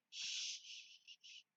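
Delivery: soft, voiceless shushing; whispered shush. A narrator's reading. Amy shushing Clarissa in bed, whispered. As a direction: hush her with a long breath. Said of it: "whispered Amy".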